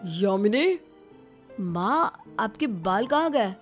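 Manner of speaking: dumbfounded questioning; family shocked at what they see; stunned astonishment. Acted. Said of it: "देखकर हैरान और दंग रह जाते हैं".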